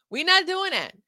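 emphatic we not doing that. Acted. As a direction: hit not hard and loud.

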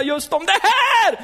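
very high, drawn-out preaching climax; emphatic exclamation. Real, not acted. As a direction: sail up high and stretch it out. (ivrigt, högt utdraget utrop)

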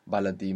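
"baladi" with BA stressed; stress on first syllable. Shown as a demonstration. Teacher shows an exception to the rule, stressing BA in baladi. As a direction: put the accent at the start of "baladi". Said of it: "they have the accent on the beginning".

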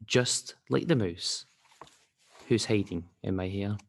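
measured storybook rhyme with pauses; children's story reading. Acted. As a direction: read it to a child, line by line. Reads children's story aloud.

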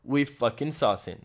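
slow, drawn-out swagger; cocky reply. Retold or imitated. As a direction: lay on the cocky bravado. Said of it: "E eu". (resposta arrogante e arrastada)

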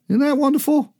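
very high-pitched, marvelling question; high, delighted appeal to the congregation; delighted wonder. Real, not acted. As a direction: lift the voice right up in delight. Preacher marvels at his own message.

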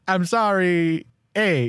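mock Canadian apology ending on eh; put-on Canadian accent. Shown as a demonstration. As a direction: demonstrate the Canadian version. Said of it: "Oh, okay, so instead of".

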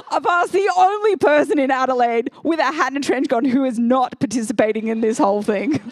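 real laughter breaking through the words; laughing. Real, not acted. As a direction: laugh it out at her own blunder. Embarrassing Cluedo mix-up story.

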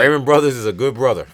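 grinning praise; laughing. Real, not acted. Joking praise through laughter.

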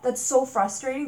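loud exasperation, rising on so; loud fed-up cry; frustrated outburst. Real, not acted. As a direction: let the frustration burst out. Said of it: "Didn't mean to rant".

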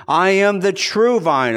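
true hit hard, slow and emphatic; stress on true. Shown as a demonstration. Preacher correcting the quote, stressing true. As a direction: lean on the word true. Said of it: "Jesus says".

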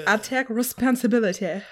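put-on French accent; lightly Frenchified delivery; mock French accent. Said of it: "With your French accent".

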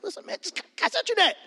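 hood Jesus. Retold or imitated. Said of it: "a hood Jesus in my Bible".

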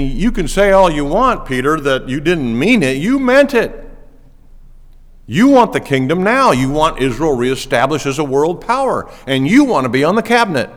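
loud, emphatic accusation; confronting. Acted. Preacher confronting Peter about his true heart, loud accusation. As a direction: call him out, punching the key words high.

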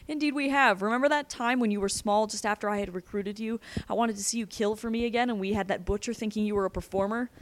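lightly voiced villain reminiscing with relish; gloating villain. Captor fondly recalling a kill to his prisoner, gloating.

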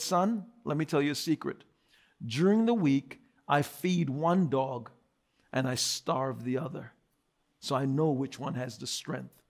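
put-on sly old man. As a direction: confide it low and hushed, like a secret. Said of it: "He said".

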